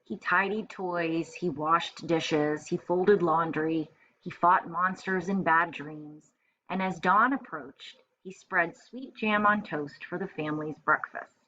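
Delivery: clear, expressive picture-book reading; storytelling read-aloud. A narrator's reading. Teacher reading a picture book to first graders, storytelling voice. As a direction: read it like story time for little kids.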